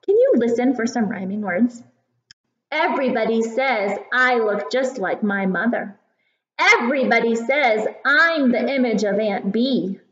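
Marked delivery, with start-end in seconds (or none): 2.7-10.0 gentle storytime reading voice; reading to a toddler. Acted. Reads poem to children.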